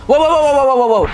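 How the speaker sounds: high, loud, thrilled string of wows; real shouted excitement; excited wow. Real, not acted. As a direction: burst out in amazement at the screen. Trailer reveal, shouts wow repeatedly.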